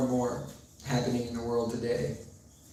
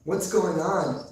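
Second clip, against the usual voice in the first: higher, louder, alarmed questioning; concerned Prabhupada; 5 semitones higher, 3 dB louder than usual. Retold or imitated. Prabhupada asking the discouraged devotee what happened, alarmed. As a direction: demand to know who upset him, slowing on the last question.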